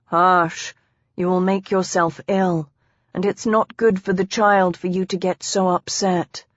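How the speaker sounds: calm her down with mild concern; understated comforting; soothing husband. Acted. Husband soothing his weeping wife.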